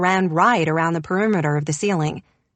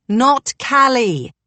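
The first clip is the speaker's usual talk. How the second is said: slow, loud, higher boom; 5 semitones higher, 5 dB louder, much slower than usual. A narrator's reading. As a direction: spell it out loudly for a deaf ear. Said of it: "he boomed".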